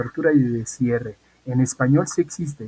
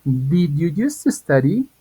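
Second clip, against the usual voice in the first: said slowly, each word apart; slow model sentence; 3 semitones higher, slower than usual. Shown as a demonstration. Teacher modeling English for class, slow and clear. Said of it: "Si digo".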